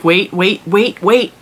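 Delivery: hurried, repeated "wait" rising slightly; mildly urgent retold call to hold on; urgent command. Owner stopping an eager dog at the pool ladder, urgent. Calling to dog climbing ahead.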